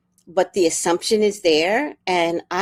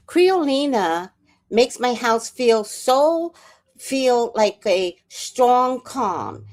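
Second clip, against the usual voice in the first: slow, dreamy praise of Creolina; slow savoring; 2 semitones higher, 3 dB louder, much slower than usual. Pretend. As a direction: draw out each word slowly and fondly.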